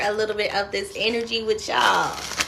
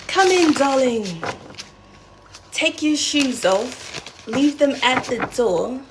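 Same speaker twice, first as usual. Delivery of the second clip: mock British hostess. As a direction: welcome a guest in a put-on British accent. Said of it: "could be from the U K".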